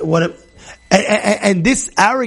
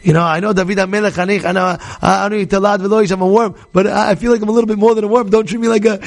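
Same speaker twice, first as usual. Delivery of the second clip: gentle way of talking. Retold or imitated. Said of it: "there's a way of talking to your own wife".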